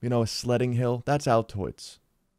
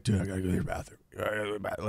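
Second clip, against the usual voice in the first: sick weak voice; 2 semitones lower, 9 dB quieter, much faster than usual. Retold or imitated. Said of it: "He's like".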